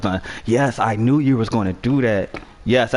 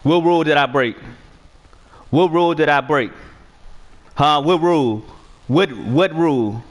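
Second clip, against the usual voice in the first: raised, insistent demand what rule he broke; indignant arguing; 4 semitones higher than usual. Real, not acted. Gamer arguing with his opponent over broken rules, indignant. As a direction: push back hard, repeating the question.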